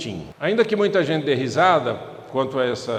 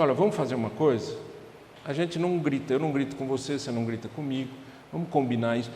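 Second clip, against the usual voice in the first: soft, reasoning tone, lower and quieter; calm proposal; 5 semitones lower, 9 dB quieter, faster than usual. Shown as a demonstration. Spouse proposing a truce after a fight, soft and calm. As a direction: offer a truce gently.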